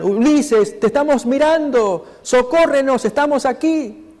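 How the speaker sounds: high-pitched imitated call for rescue, not truly shouted; mock crying out. Sirens posing as family lure Ulises, imitated high calling out. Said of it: "Y gritan".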